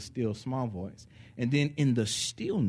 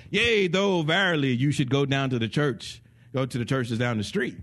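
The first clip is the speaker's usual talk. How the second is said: louder, archaic mock angel proclamation; hammed-up biblical messenger; 5 dB louder than usual. Angel speaks in King James style.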